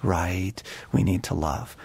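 low, subdued mock agreement; lightly acted sheepish mumbled assent. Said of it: "gets sheepish and silent and goes".

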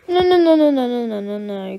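put-on a child panicking as the dog comes close; panicked no's. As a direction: push it away in panic.

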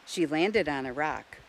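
usual speaking voice

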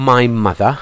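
"mother" with a clear TH; TH sound demonstration. Shown as a demonstration. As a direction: model the TH in "mother" for learners. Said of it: "เวลาเราออกเสียง ทีเอช นะครับ".

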